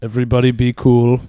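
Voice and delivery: lightly put-on Lincoln voice; mock Lincoln. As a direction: hush the whole room casually. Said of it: "You think Lincoln said that".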